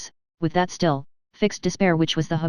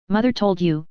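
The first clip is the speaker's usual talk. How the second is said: "Mother" picked out with understated bitterness; a touch of thrilling, bitter stress on "Mother"; bitter emphasis on Mother. A narrator's reading. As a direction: lean bitterly on the word "Mother", without shouting. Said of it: "with a thrilling and bitter emphasis on the word mother".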